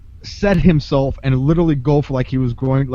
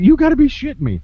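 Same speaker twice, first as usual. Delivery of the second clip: disbelieving outburst, pitched high and a bit louder; incredulous; 11 semitones higher, 4 dB louder than usual. Retold or imitated. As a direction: retorts in shocked disbelief. Retold reaction to second attack.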